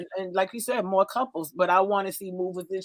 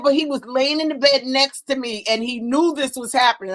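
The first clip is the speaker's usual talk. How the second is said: retold protest; 3 semitones higher, 4 dB louder than usual. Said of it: "I said".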